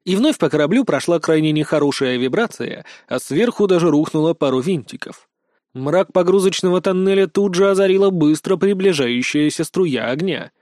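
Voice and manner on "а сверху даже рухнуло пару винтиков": usual speaking voice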